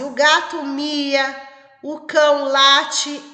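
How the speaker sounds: slow and clear, as if dictating; slow dictated sentence. Shown as a demonstration. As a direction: dictate the sentence for the child to write. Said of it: "E depois a frase". (frase ditada devagar)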